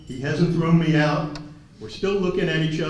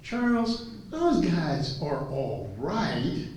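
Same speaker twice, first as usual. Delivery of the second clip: Mike; 7 semitones higher, slower than usual. Retold or imitated. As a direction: imitate an oilman, slow then booming. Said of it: "He says".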